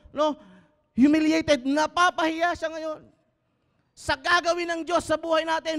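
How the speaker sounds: high, loud mockery of the devil; fiery preaching. Pastor mocking the confused devil to the congregation, high and loud. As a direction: taunt the enemy's confusion.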